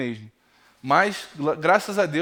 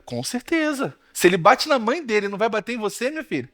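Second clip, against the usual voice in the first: pastor's joking manner; 4 semitones higher than usual. Retold or imitated. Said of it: "Naquele jeitão dele lá".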